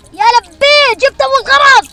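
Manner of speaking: loud, high delighted cheer; thrilled. Real, not acted. Gamer celebrates finding the first item, loud high cheer.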